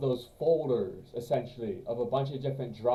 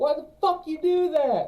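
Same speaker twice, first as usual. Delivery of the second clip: put-on angry movie tough-guy voice, higher and louder; 6 dB louder than usual. Quoting a Pulp Fiction line about shooting Marvin: Samuel L. Jackson impression. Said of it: "That was my Samuel L. Jackson".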